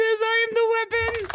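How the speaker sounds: high, loud mock battle cry; loud weapon quote. Mocking the old man's sign with a loud, high battle cry. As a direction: belt it out like a proud old warrior. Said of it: "It sure says".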